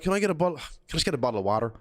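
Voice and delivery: quick American-style order for water; Americanised order. Retold or imitated. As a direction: drop the Aussie, just order water. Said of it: "I was like".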